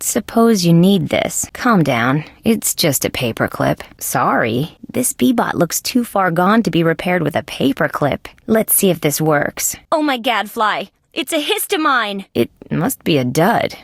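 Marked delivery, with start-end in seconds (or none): 1.5-4.8 low, placating voice; calming. Acted. Calming someone upset by a paperclip. 9.9-12.3 high-pitched startled exclamation; alarmed. Acted. Alarmed discovery of a bomb-like device.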